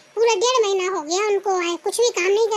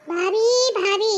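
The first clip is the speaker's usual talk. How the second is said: calling out; slower than usual. Acted. Sister-in-law calls out for bhabhi.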